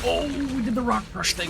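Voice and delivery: excited. Real, not acted. Big combo move lands.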